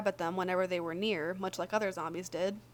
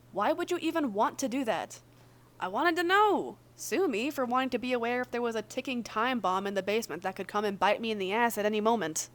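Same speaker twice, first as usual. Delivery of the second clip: arguing character. Acted. Virgil snapping back at Logan over the rat test, raised and indignant. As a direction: bristle back as if accused.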